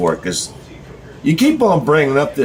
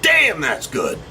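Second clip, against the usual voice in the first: mock savoring; 11 semitones higher, much slower than usual. Vlogger acting out tasting Thanksgiving turkey, high delighted squeal. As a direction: squeal of pleasure, much higher. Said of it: "when I say".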